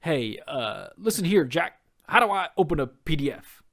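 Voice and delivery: hammed-up folksy grandpa politician asking for tech help; Joe Biden impression. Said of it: "this is my terrible Joe Biden impression".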